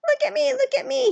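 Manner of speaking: very high, loud strutting rooster voice; rooster crying out. A narrator's reading. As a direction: crow it like a proud rooster begging for attention. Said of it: "he seems to cry".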